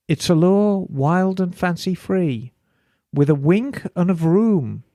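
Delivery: slow, measured verse reading with pauses; poem read aloud at an unhurried pace; limerick reading. Acted. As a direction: recite it line by line, savouring the rhymes. Reads out a listener's limerick.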